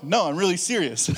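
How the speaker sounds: laughing through it. Retold or imitated. Retold chat, laughing.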